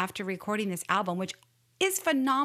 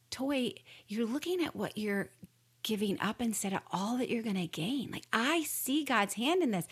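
calm and kind. Retold or imitated. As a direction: gently reassure your hesitant wife. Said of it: "very calmly, very kindly".

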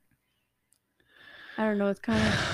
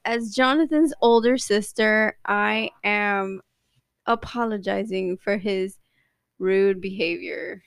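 formal apology; slower than usual. Acted. Sister issues mock official apology.

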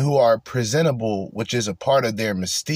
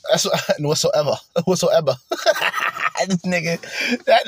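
laughing; 4 semitones higher than usual. Real, not acted. Laughing at the played clip.

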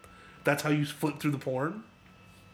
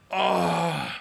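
exasperated groan. Retold or imitated. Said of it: "now he's even more pissed".

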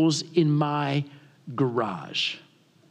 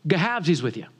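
put-on thick rural Southern accent, words run together; unintelligible country dialect; 3 semitones lower than usual. Young man repeats himself to puzzled homeowner, slurred country accent. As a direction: mumble it as one word in country dialect. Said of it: "I thought he was speaking Wookiee".

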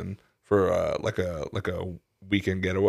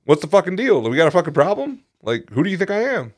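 raised, confrontational challenge; angry; 6 semitones higher, 3 dB louder than usual. Retold or imitated. Customer imagining confronting the drive-in staff, acted anger. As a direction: square up to them, voice pitched up. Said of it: "I was fucking angry".

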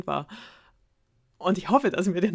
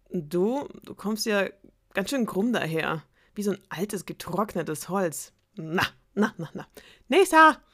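spoiled princess; 3 semitones higher, 4 dB louder than usual. Acted. Princess insulting suitors.

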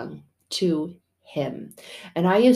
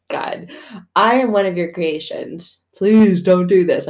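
mock begging; 6 dB louder than usual. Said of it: "Like, begging".

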